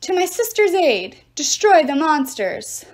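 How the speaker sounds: loud, high war cry, slow on destroy; rally the troops at full voice; commanding battle shout; queen's shout. A narrator's reading. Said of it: "The Amazon Queen shouted".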